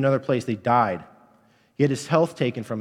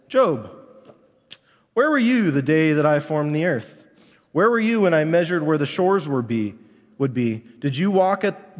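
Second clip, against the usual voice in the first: raised, louder voice of God questioning Job; booming voice of God; 4 semitones higher, 3 dB louder than usual. Acted. God confronting Job with his power, raised and louder. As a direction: proclaim each question like thunder from above. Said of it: "And God says".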